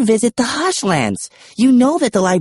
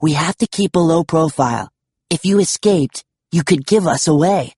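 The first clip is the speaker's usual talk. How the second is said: higher, curt character voice; firm and curt, pitched up; 7 semitones higher than usual. A narrator's reading. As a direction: lay it down curtly. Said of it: "Steele said curtly".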